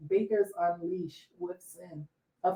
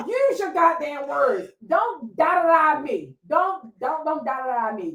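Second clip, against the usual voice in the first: slow, raised scolding; mock scolding a daughter; 5 semitones higher than usual. Mother scolding daughter's vague talk, slow mock scolding. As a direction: scold her to speak properly. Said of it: "I was like".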